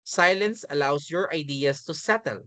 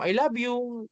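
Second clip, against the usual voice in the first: higher-pitched, mock-cross delivery; angry-sounding tone; 6 semitones higher, slower than usual. Shown as a demonstration. Teacher shows students how a loving line can sound wrong, mock angry. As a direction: say it as if annoyed, pitched up. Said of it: "parang galit".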